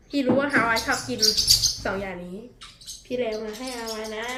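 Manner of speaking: tender pet talk. Real, not acted. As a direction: speak softly to a pet. Softly talking to pet bird.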